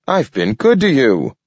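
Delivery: pleading raccoon. A narrator's reading. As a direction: beg him not to go, voice lifted high. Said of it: "the raccoon pleaded".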